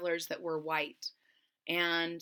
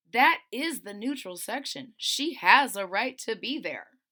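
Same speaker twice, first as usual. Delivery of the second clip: insistent defence; 2 semitones higher, 6 dB louder than usual. Acted. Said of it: "saying amongst themselves".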